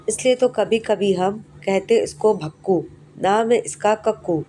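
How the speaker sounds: put-on slow, measured reading of a children's poem; poem recitation. Teacher reciting the Kakku poem to class three, slow recitation.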